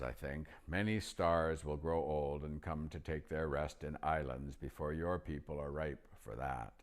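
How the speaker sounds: patient and unhurried, like a king; Aslan voice. Acted. Aslan speaks to Lucy.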